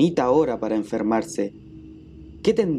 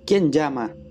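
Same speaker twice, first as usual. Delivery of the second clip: shouting; 4 semitones higher than usual. Acted. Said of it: "gritó con una voz fuerte".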